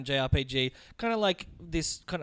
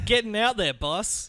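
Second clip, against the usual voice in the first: put-on Aussie accent; 5 semitones higher, slower than usual. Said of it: "Classic Aussie phrase".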